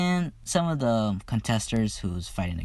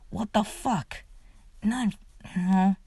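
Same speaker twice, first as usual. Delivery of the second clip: much higher, scandalised squeal; shocked Mirko; 10 semitones higher than usual. Retold or imitated. Mirko caught off guard by the crude joke, high shocked squeal. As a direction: yelp it like she can't believe he said that.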